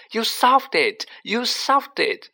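high, excited mock scream. A narrator's reading. Hermione running towards Harry, screaming excitedly. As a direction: cry it out high, drawing out the repeat. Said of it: "Hermione running towards him, screaming".

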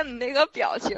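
ordinary talk

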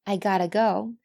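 "gotta" linked as one word with a flapped t; reduced gotta. Shown as a demonstration. Teacher draws attention to the last one's pronunciation, reduced form. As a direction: model a weak, linked "gotta". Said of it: "注意最后一句话的发音".

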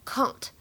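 can't with a long open a as in father, British style. Shown as a demonstration. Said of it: "在英式英语当中呢，它读作". (英式发音的can't)

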